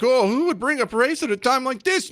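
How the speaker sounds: high sarcastic mock voice. Host mocking critics who deny raising race, sarcastic high voice.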